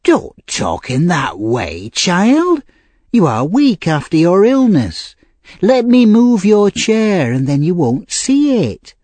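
slow, swooping high-pitched scolding; fussing old lady. A narrator's reading. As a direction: fuss over the child in big pitch swoops. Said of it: "cried the old lady".

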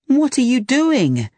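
alarmed demand across the chaos; shouted. A narrator's reading. Larry confronting Teddy amid panic, shouted high. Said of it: "he shouted".

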